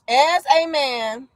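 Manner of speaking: slowly spelling out "As a man"; slow repeat. Shown as a demonstration. Reading the poll option back to chat, slowly and deliberately. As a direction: lay out "As a man" word by word, slowly. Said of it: "I said".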